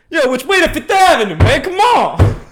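loud, high holler imitating a passerby; retold yell. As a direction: yell it out across the street, hammed up. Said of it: "he yells out".

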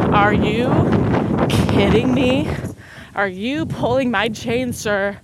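hammed-up "are you kidding me" to dad; incredulous. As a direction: stretch out the outrage in mock shock. Daughter retorts to dad's news.

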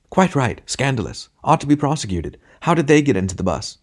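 mildly growled outrage. A narrator's reading. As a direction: grumble in disapproval like fellow passengers. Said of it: "growled the passengers".

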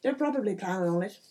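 animated mayor in a put-on accent; salesman-like mayor with a bad accent; chatty village mayor. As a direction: play a folksy mayor with a hammy accent, lively and rambling. Game master plays the mayor.

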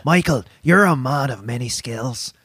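a light, understated Liam Neeson voice; lightly imitating a grave movie star; Liam Neeson impression. Podcast host teases co-host, lightly voicing Liam Neeson. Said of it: "thinking Liam Neeson".

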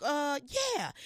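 high, loud eager yes; excited blurt. Retold or imitated. Asked if she travels, a loud excited yes. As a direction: blurt it out before thinking.

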